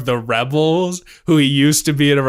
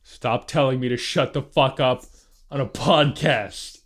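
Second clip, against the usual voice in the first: softer, measured telling-off; restrained scolding; 2 semitones lower, 5 dB quieter than usual. Real, not acted. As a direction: repeat the order with quiet, spaced-out firmness. Same scolding repeated, now held back.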